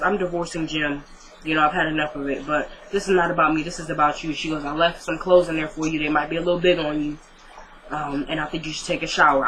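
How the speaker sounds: understated, hushed caretaker tone; gentle reassurance. Retold or imitated. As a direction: speak quietly, easing her along. Retold woman gently looking after Hannah.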